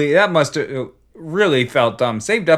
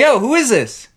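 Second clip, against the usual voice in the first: high caller voice; 12 semitones higher, 6 dB louder than usual. Retold or imitated. Acted phone call.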